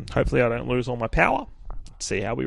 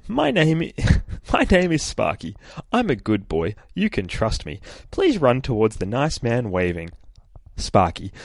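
sweet dog note; 2 semitones higher than usual. Retold or imitated. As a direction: read it like an innocent good boy, giggling. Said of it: "the note just says".

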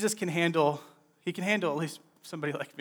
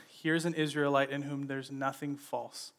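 calm, softer and quieter; 3 semitones lower, 6 dB quieter than usual. Retold or imitated. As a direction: say it calmly, without offense. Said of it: "He just calmly says".

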